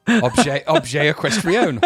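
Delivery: mock French-sounding phrase, drawn out; hammed-up made-up foreign words, slow; fake foreign language. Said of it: "Just made it up".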